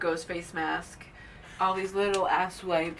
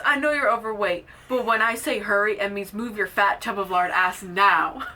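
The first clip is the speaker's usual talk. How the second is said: loud mock scolding, slowing into the order; loud, bossy retelling; acted scolding; 6 dB louder than usual. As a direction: berate an underling in a quoted tirade. Acting Gale berating her cameraman.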